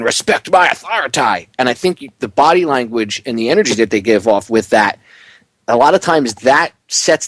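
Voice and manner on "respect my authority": cartoon kid impression, bossy; Eric Cartman. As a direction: demand it like a spoiled cartoon kid. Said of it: "like Eric Cartman in South Park".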